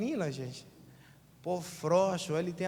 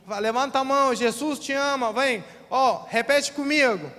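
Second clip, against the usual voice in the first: mock eager welcome; 4 semitones higher, 6 dB louder than usual. Mocking eager church welcome.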